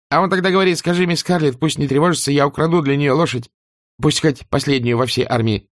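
put-on high, timid young servant girl; frightened maid voice. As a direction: squeak it out nervously. (испуганная служанка)

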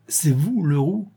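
lightly voiced giggling stammer; a touch of disbelieving hilarity, pitched high; stammering with laughter. A narrator's reading. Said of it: "bégayait-il".

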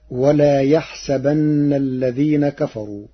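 measured chanted recitation; intoned Quran verse; Quranic recitation. Shown as a demonstration. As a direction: recite it in tajweed style. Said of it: "قال الله تعالى".

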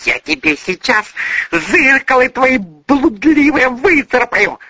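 put-on furious girl threatening to scratch his eyes out; hissing threat. A narrator's reading. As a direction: hiss out the threat. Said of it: "шипела девушка".

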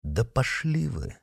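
slow, soft weary thought; wearily thought. A narrator's reading. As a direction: mutter inwardly in despair. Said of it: "тоскливо подумал Митя".

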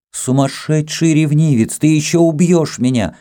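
high, heated retort; agitated protest. A narrator's reading. Kama to her jealous Greek lover, agitated. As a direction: throw it back in agitation. Acted quarrel, Kama answers.

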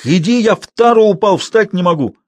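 put-on high, loud old man's complaint; screechy, irate plea; spiteful shrill shouting. A narrator's reading. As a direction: squeal angrily for help. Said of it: "злобно, визгливо кричал старик".

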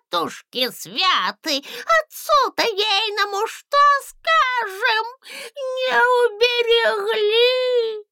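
high, loud wailing granny; old woman's lament. A narrator's reading. Old woman wailing that the dragon stole the princess.

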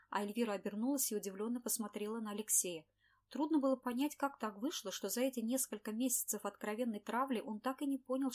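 plain reading voice

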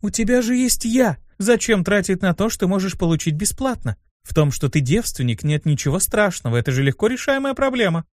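high, pleading undertone; despairing whisper. Acted. Succubus offering herself to the dean, pleading desperately. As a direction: plead privately, with a note of despair. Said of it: "прокрались нотки отчаяния".

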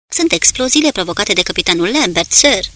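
a mild exclaimed report, rising on sir; exclaiming. Acted. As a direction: call it out with a touch of urgency. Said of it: "exclamă Blight". (exclamație ușoară, cu avânt pe „sir”)

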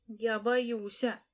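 high, slow little squeak; a frightened small girl's squeak; a sleepy child squeaks her fear; squeaky. A narrator's reading. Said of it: "пропищала Оля Чуркова".

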